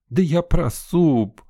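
high, slow giggly line; giggling. A narrator's reading. Sveta giggling about the soup. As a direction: giggle it out teasingly. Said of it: "хихикнула девчонка".

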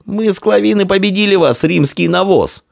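high, heated gloating; scornful shouting. Acted. Victor's boy threatening Roman boy with slavery, shouting scornfully. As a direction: jeer at the defeated, pitched high.

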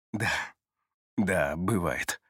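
low, slow, softened reply; easy, unhurried admission, pitched low; answering with a smile. A narrator's reading. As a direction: admit it slowly with a slight smile. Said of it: "с улыбкой отвечает он".

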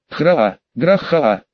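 slow, drawn-out beast howl; deep distorted monster roar. Acted. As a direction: howl like a wounded minotaur. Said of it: "выл Минотавр". (протяжный вой чудовища)

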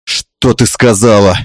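slow, low angry demand; angry outcry. Acted. Father-in-law interrupting the women, angry outcry. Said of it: "гневный окрик".

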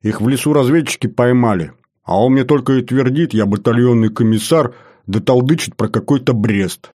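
aggrieved, insistent reporting; indignant complaint. Acted. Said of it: "возмущённо заорал особист Паша".

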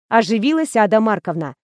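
plain reading voice

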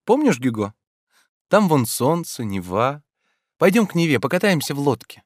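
put-on high, lively young woman voice; Ольга, звонкая девушка. A narrator's reading. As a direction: play Olga pleading playfully. Olga's voice in reading. (звонкий голос юной Ольги)

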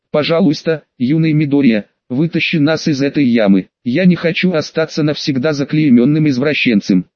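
usual speaking voice

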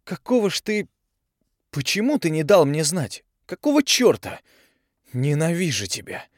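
high and loud, voice cracking; girl screaming her hatred; furious shout. A narrator's reading. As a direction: yell until the voice breaks. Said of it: "Голос дал петуха".

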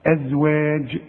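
"ازواج" ending in j as in "judge", never hard g; soft affricate jeem. Shown as a demonstration. Teacher reminding a student about jeem, softened and bounced. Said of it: "تعطش".

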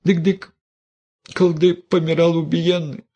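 высоко, торопливо лепечет; залепечи по-бабьи; простая баба. A narrator's reading. Голос Мелании, простонародный. (Мелания лепечет игуменье, высоко)

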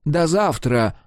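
mild angry "до завтра" as a threat. A narrator's reading. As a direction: spit out "до завтра" in anger. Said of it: "гневно добавил".

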